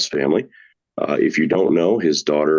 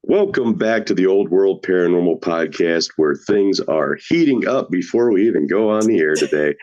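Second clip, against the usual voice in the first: put-on Scottish-Irish accent; 2 semitones higher than usual. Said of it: "a little bit of Scottish and Irish all in one".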